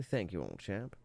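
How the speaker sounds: put-on quick British accent thank-you. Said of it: "Great British accent, by the way".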